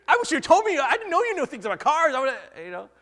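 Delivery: very high, loud falsetto wife; husband mimicking his wife in a squeaky high voice; mock wife voice. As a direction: ham up the wife. Mocking wife's imagined line.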